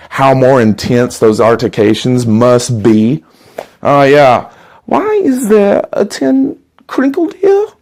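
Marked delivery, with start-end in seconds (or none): 4.9-7.7 put-on salesman with a thick German accent, slow and polite; a German door-to-door salesman greeting a customer. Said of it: "having a Nazi at your doorstep".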